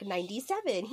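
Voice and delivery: soft count, then a little evil giggle; delightful evil chuckle. Retold or imitated. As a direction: lightly imitate a gleeful leprechaun's quiet chuckle. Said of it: "evil little chuckle".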